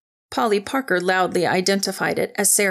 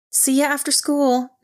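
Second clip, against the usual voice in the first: higher, teasing goodbye; called with grin; 6 semitones higher than usual. A narrator's reading. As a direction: call it out through a grin. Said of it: "Nix called with a grin".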